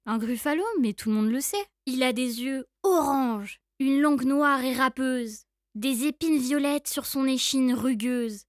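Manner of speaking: lightly voiced confident mouse; a hint of a cunning mouse; knowing mouse. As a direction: explain it as common knowledge. Mouse describes the gruffalo.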